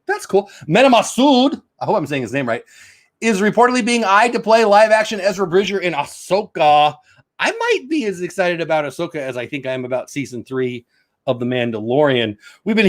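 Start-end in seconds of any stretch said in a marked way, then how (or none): 0.7-6.9 higher-pitched headline reading; projected entertainment-news read. Acted. Reads a news headline aloud.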